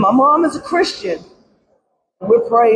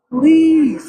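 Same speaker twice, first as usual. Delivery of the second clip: urgent plea; 4 semitones higher than usual. Real, not acted. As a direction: beg harder on this please. Pleading with lawmakers, repeated plea.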